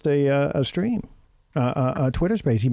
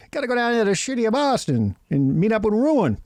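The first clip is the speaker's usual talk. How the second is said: put-on Boston accent; 6 semitones higher than usual. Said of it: "that's how we pronounce it up here".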